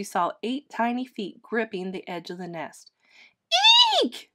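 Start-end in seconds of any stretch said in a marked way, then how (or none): 4.0-4.3 short squeaked eek of alarm; startled cry. A narrator's reading. Mama Bird finds the babies hanging, squeaking in alarm. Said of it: "she cried".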